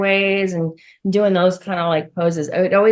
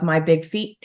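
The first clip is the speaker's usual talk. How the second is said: whisper; 2 semitones lower than usual. Real, not acted. Whispered aside about her feet.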